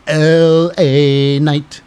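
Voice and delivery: ring announcer. Pretend.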